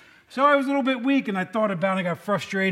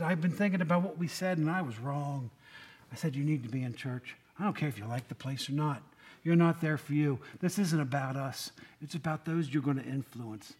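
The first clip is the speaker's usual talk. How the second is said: soft, gentle talking-to; gently; 4 semitones lower, 6 dB quieter than usual. Retold or imitated. Pastor gently urging his friend Shelby back to church, soft. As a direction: ease into it kindly, a little softer. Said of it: "So I said to her gently".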